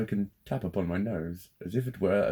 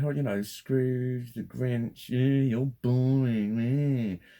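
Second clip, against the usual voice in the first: put-on slow, whingeing baby voice, higher; mock them like a sulky three-year-old; drawn-out childish whine, pitched up; whiny toddler mockery; 6 semitones higher, 5 dB louder, much slower than usual. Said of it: "they put on a three-year-old's accent".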